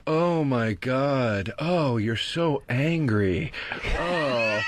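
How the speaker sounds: slow drawn-out mock taunt; a hint of sneering Steve. Steve taunting Bobby in the car, slow drawn mock. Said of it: "Steve's in the back seat going".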